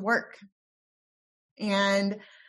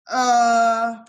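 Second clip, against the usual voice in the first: baffled grunt; 2 semitones higher, 9 dB louder than usual. Retold or imitated. Baffled reaction to aunt's call.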